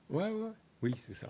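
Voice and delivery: hushed whispered aside; whispering. Real, not acted. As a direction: drop to a whisper. (chuchoté)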